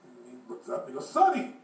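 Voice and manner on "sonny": put-on high, sharply pitched-up old man; high old-timer voice. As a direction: call to a youngster as an old man. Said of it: "this old guy, probably seventy years old".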